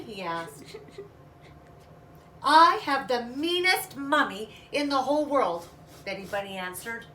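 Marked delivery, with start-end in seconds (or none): 2.4-5.7 higher, louder wailing complaint; whiny complaint. Acted. Little bunny complaining to her father, loud and whiny. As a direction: cry out your grievance like a spoiled child.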